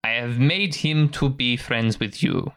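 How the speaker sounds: slow, measured elf mentor; a hint of a patient elf master; lightly voiced elf. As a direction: gently instruct a pup, taking your time. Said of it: "the elf turns and says".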